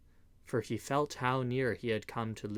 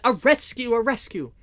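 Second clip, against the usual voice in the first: high, loud rallying cry; shouting a rescue; 9 semitones higher, 9 dB louder than usual. A narrator's reading. Outlaws raise the rescue cry, high loud shouts. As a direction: rouse the crowd with the cry. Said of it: "others said".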